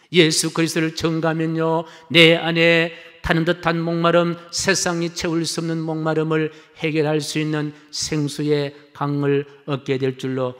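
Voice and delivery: firm pulpit declaration; preacher pressing the promise home. Real, not acted. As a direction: declare it with conviction to the congregation. Preaches with raised voice.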